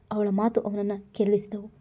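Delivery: plain reading voice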